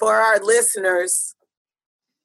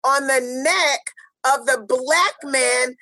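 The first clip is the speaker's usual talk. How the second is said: spoken word poem; 2 semitones higher than usual. Acted. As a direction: intone it like a protest poem over music. Spoken-word opening over music.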